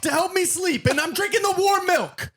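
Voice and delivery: put-on lampoon him as a fussy sleepy boy; mock prim bedtime voice. Mocking the guest's bedtime excuse.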